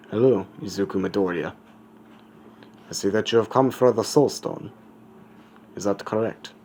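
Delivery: put-on skull-faced figure with a tentative German accent; lightly put-on German accent; attempted German accent. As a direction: try a German accent, not quite convincing. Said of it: "I'm trying to do a German accent".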